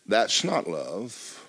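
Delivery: that's not love, drawn out slowly; slow emphatic. Real, not acted. Preacher judging the mother's prayer, slow and firm. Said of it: "comment, slowed for effect".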